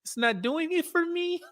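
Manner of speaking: high, airy, laughing brush-off; mock brush-off. Imitating a woman politely turning a guy down, mock brush-off. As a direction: toss it off lightly, half laughing. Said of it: "sneak way to be like".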